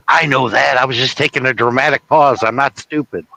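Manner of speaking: mildly indignant presidential impression; Ronald Reagan. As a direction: raise it slightly, mock offended. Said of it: "what to say as Ronald Reagan".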